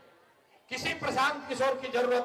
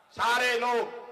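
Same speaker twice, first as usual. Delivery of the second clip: louder call to the whole crowd; 2 semitones higher, 4 dB louder, slower than usual. Real, not acted. Speaker rallying the crowd, calling out loud. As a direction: call out to everyone gathered.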